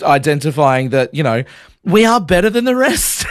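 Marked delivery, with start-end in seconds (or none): 1.8-3.2 high, haughty mock-posh voice; playfully snooty boast. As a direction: put on airs like a pretend snob. Mocking Adelaide posh superiority.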